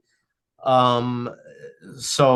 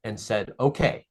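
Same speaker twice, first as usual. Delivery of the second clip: gentle reassurance; 3 semitones lower than usual. Acted. Source comforting message.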